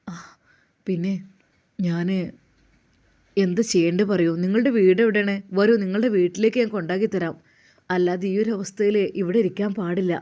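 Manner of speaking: lightly voiced Ustad urging the girl to get up; young Ustad.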